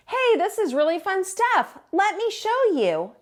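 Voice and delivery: a clumsy penguin showing off; goofy Tacky voice. Acted. Tacky takes over.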